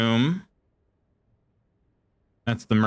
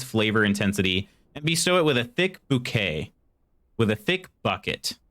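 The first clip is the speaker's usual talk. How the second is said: tag reading aloud. Real, not acted. Reads game note aloud.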